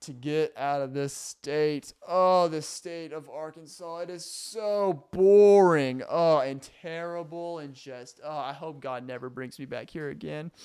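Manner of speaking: slow, drawn-out exaggerated contempt; mock disdain for Arkansas, drawn out. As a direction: sneer at the state, slow and overdone. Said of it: "I'm kidding".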